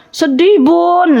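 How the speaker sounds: put-on a little child whining sadly to mum. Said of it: "anak kita bilang". (anak kecil mengeluh sedih kepada bunda)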